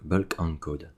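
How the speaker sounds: slow English words in a French accent; real French accent on English. Real, not acted. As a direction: say the English term slowly with a rough French accent. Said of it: "excusez-moi mon accent anglais, il est un peu pourri".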